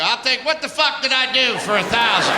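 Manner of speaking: husband plays Jeopardy with his wife, mock contestant voice; game show contestant. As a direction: pick a category like a quiz player. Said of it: "come in the house and go".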